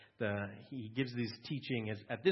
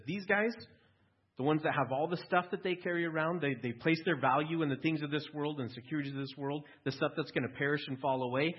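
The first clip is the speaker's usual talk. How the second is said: higher and louder, impassioned Jesus on the rich; 4 semitones higher, 4 dB louder than usual. Acted. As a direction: preach it hard against the wealthy, higher. Preacher voicing Jesus on the rich.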